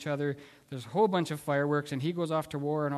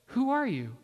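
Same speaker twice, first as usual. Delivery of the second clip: higher, sharply questioning a stranger; defensive alarm; 6 semitones higher than usual. Retold or imitated. Wife with Alzheimer's suddenly not knowing her husband, defensive alarm. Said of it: "she gets very defensive".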